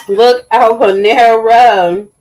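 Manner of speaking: loud, slow stretched Panera; drawn-out shout-out. Real, not acted. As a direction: call it out long and loud.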